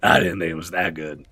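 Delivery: low murmured aside; a thought in your head; inner voice. Acted.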